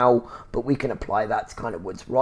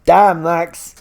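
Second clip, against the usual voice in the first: high, loud impressed outburst; impressed exclamation; 5 semitones higher, 7 dB louder than usual. Real, not acted. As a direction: sound bowled over by her nerve. Impressed reaction to Max's jab.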